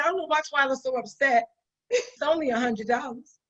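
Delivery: imitating him through a laugh; laughing mock quote. Speaker mocks an employee, laughing through his words. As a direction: breaks into laughter quoting a clueless staffer. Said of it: "the guy said".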